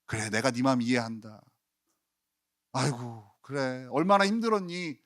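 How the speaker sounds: soft, tender reassurance, a touch mock; gentle comfort. Imagined Jesus soothing Peter, softly tender. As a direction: soothe him like a hurting friend.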